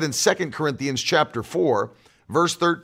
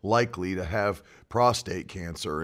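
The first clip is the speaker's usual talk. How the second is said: low, soft, sinking mock of a worrier; mock resigned talk; 7 semitones lower, 6 dB quieter than usual. Preacher mimicking talk about getting older, low resigned mumble. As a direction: imitate someone meekly accepting getting older, voice dropping away. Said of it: "And I don't talk like that".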